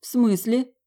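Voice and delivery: high puzzled question; woman who doesn't understand asking what he means; confused. A narrator's reading. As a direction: ask it baffled, pitch jumping up. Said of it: "не поняла я".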